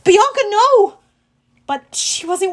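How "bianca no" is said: high, loud cry to a friend; urgent, raised-pitch yell; alarmed shout. Acted. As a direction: shout a desperate warning. Narrated hero calls out in battle.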